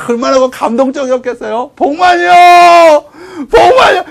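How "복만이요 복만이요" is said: long drawn-out high shout of a name; calling out. Acted. Brother storming the jail for prisoner, calling out. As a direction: holler as if searching through a prison.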